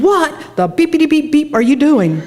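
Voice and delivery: high, sharp angry outburst; angry yell. Retold or imitated. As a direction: confront the painter in fury. Angry retort at the painter.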